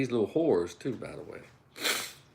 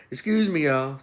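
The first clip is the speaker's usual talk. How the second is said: sweet polite woman; 2 semitones higher than usual. Retold or imitated. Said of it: "But a sweet woman come up there".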